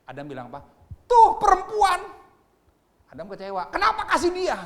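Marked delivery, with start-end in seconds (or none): 1.1-2.0 high, loud accusing whine; Adam shrilly blaming the woman. Acted. 3.7-4.6 high, loud complaining with a laugh; disappointed Adam, loud and high. Acted.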